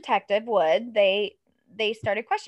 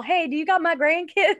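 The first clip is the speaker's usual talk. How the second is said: high mock mom; 6 semitones higher, 4 dB louder than usual. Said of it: "commenting on the person's wall".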